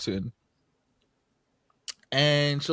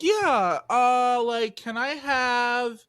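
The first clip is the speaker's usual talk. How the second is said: mock clueless customer; slower than usual. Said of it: "She's like".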